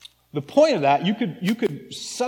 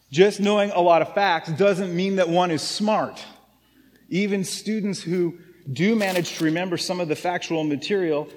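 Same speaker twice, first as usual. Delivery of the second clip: not a Russian accent; 2 semitones higher than usual. Shown as a demonstration. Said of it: "in not a Russian, terrible Russian accent".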